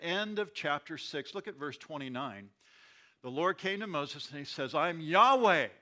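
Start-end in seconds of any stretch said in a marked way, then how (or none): 4.7-5.7 booming, much louder divine declaration; stern God. Acted. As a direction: proclaim it sternly, with full weight. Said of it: "in a very str-, stern way".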